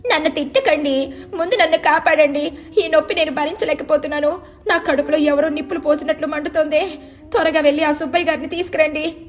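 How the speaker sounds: high-pitched crying plea in pain; tearful pleading. A narrator's reading. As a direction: wail for help through belly pain. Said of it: "కమల ఏడుస్తూ మంచం మీద పొర్లుతూ".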